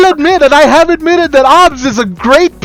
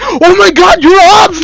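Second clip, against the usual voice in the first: higher, excited imitation of a starstruck fan; mock fangirl gush; 4 semitones higher than usual. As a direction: gush mockingly over a celebrity. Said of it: "she fucking gushed".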